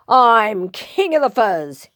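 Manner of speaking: mildly snarled boast; snarling. Acted. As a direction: lord it over them with a touch of snarl. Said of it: "he snarled".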